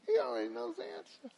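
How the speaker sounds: fast, high, breathy whisper; whispered emphasis. Acted. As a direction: lean in and whisper it. Whispered aside to congregation.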